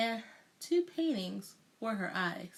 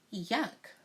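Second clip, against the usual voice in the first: mock disgust. A narrator's reading. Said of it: "she said".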